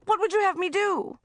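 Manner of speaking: histrionic yell. Acted. Mother dramatically confessing to her daughter, histrionic yell. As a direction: wail it like a stage tragedy. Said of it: "she yelled histrionically".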